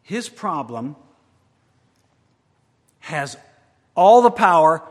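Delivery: his problem has all the power, power punched loud; stressing the correction. Shown as a demonstration. Preacher correcting himself to the congregation, power loud. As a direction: hit power hard after the misstatement. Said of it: "No, misstated".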